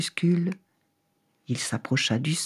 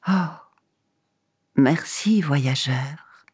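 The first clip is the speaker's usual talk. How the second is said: talking tree; slower than usual. Acted. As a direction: breathe the thanks out weakly. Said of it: "répondit l'arbre".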